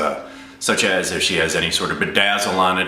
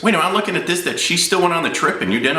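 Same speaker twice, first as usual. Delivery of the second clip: high-pitched indignant double take; imitated incredulity; 10 semitones higher than usual. Insurance agent spotting she took the trip, high-pitched disbelief. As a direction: imitate an agent catching something outrageous.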